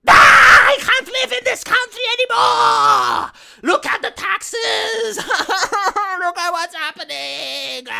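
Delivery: high, loud hammed-up wail with sobs; mock crying meltdown. TikToker chimping out in a parked car for the camera, fake crying. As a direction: bawl it out, drawn-out and fake. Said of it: "the TikTok crying vids".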